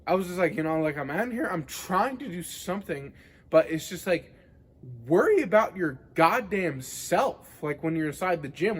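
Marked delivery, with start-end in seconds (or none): 5.1-7.5 worked-up retort, louder, goddamn self stressed; pissed off. Retold or imitated. Gym-goer venting at an unwanted advice-giver, pissed off. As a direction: vent a retold irritated outburst. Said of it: "it pissed me off so much".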